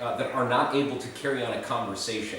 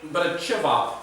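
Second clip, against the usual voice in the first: mouth full; 4 semitones higher than usual. Real, not acted. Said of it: "eating with my mouth full".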